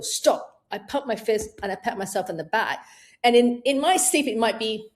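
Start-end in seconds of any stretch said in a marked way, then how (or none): 0.0-0.6 a short firm stop. Shown as a demonstration. Coach demonstrating her stop technique, firm command. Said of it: "for me is I go".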